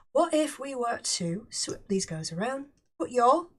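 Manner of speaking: playful, badly faked British accent. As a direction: put on a very bad British accent. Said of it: "my very bad British accent".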